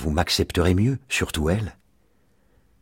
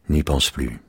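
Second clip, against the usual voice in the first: calm, slightly lowered voice; 3 semitones lower than usual. A narrator's reading. Husband tells his puzzled wife to forget it, calmly. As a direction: let it drop calmly. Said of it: "dit-il calmement".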